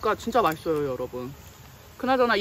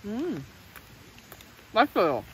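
talking while chewing food; speaking around a mouthful; mouth full, chewing. Real, not acted. Seen 0: Took a bite at -2s; lips show chewing while speaking.

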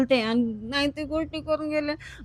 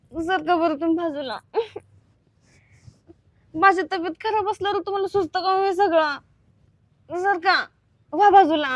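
annoyed scolding; 5 semitones higher than usual. Acted. Sick wife scolding husband.

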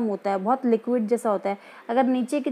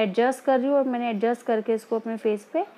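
muffled behind both palms; speaking into cupped hands; hands covering mouth. Real, not acted. Seen 1: Both palms pressed over nose and mouth, over sheet mask.

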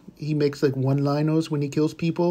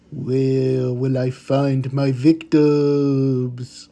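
mock sinister; much slower than usual. Playing the killer.

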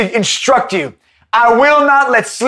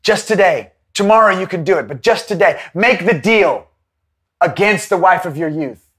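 tempting devil; 4 semitones lower than usual. Retold or imitated. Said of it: "as the devil is saying to you".

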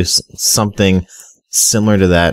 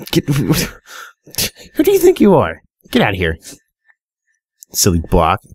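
laughing mock scolding; 5 semitones higher, slower than usual. Real, not acted. Scolding a block in game.

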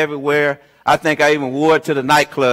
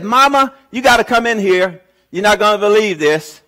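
calling out; 5 semitones higher than usual. Retold or imitated. Daughter calling her mother in.

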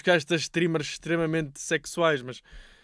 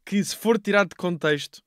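excited; 3 semitones higher, 5 dB louder than usual. Real, not acted. Enthusiastic praise of streamer.

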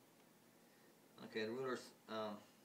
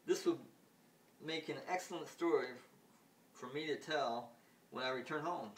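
higher and louder, gloating; amused ruler; 3 semitones higher, 3 dB louder than usual. Retold or imitated. Ruler gloats over his story, high and loud. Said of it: "Then the ruler goes".

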